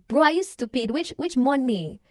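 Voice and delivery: playing the scammer who snaps back; mock shout. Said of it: "the woman just shouts at him like".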